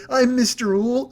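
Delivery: slow, drawn-out Mister Ool in a mock accent; affected accent, stretching out Ool; haughty-sounding owl with a put-on accent. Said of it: "came in with the accent".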